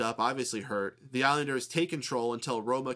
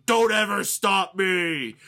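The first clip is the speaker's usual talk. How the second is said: slow, booming mock giant yell; much higher, much louder, slow imitated shout; Andre yelling; 8 semitones higher, 10 dB louder, much slower than usual. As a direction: bellow it slowly like an angry giant. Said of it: "keeps yelling".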